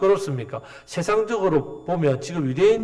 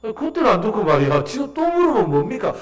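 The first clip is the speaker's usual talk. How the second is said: higher-pitched, exasperated mock questioning; sarcastic retort; 6 semitones higher than usual. Healed blind man to the Jewish leaders, sarcastic. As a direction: needle them with incredulous questions. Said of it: "이렇게 비꼬았단 말이에요".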